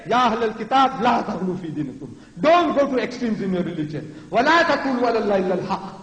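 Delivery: emphatic, militant proclamation; forceful commanding recitation. Shown as a demonstration. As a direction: declaim scripture like firm orders. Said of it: "This is how Allah talks".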